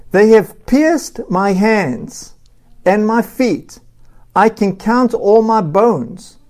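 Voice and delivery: impassioned but measured psalm reading; solemn scripture reading. A narrator's reading. Reads the psalm aloud.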